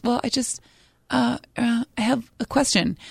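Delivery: imitated hesitant caller, stalling with uhs; softly halting, mildly anxious imitation; nervous caller. Caller stalls before asking her question, imitated nervousness. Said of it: "Just very nervous".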